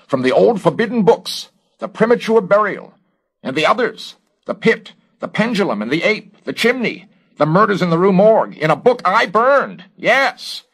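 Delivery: very high, loud, mounting alarm; gasped, agitated realization. A narrator's reading. Garrett recognizing the books he burned, gasping in agitation. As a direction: pile up each item in shrieky alarm. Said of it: "gasped the investigator of moral climates".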